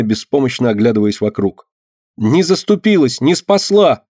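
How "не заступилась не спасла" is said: high, loud furious shout; angry shout. A narrator's reading. Girl shouts angrily at the icon. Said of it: "гневно кричала мышка".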